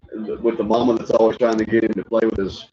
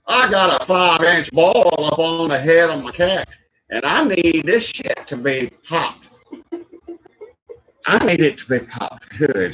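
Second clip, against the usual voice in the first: redneck patient; 7 semitones higher, slower than usual. Retold or imitated. Voicing man on pimple show.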